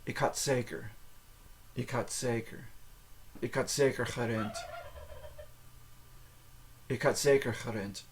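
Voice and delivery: had said like "hot", ending in T. Shown as a demonstration. Teacher drills a Dutch sentence, had as "hot". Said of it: "had is pronounced hot".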